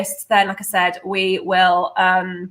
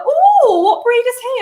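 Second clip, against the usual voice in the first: curious passerby; 13 semitones higher, 4 dB louder than usual. Retold or imitated. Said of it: "they go".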